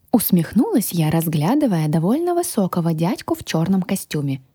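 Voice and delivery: ordinary delivery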